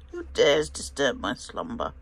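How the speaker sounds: ancient rasping undead king. Pretend. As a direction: boom it out like a king roused from his tomb. Voicing the woken sleeper.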